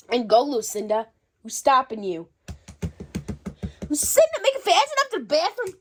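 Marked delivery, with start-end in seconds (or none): 3.9-5.7 high, fast call out. Acted. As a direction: holler through the door. Yelling at someone in bathroom.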